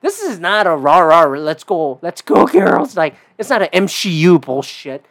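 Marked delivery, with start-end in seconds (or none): 0.0-3.0 a hammed-up rah-rah pep shout, slower on rah; mock cheerleading a crowd of girls, laughing at the end; mock cheer. Mocking a rah-rah girl-power cheer, louder and laughing. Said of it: "you just go, like".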